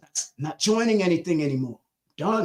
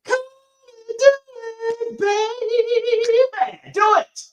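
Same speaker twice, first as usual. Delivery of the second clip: 1 excited; 4 dB louder, slower than usual. Real, not acted. Hyping the audience to act.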